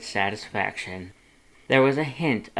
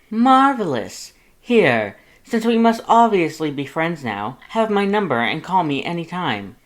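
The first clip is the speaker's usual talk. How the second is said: high, loud delighted exclamation; thrilled, booming skeleton voice; excited Papyrus; 7 semitones higher, 7 dB louder than usual. A narrator's reading. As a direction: burst out with delight, much higher.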